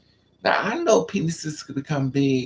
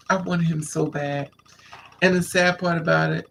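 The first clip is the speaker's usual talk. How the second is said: usual speaking voice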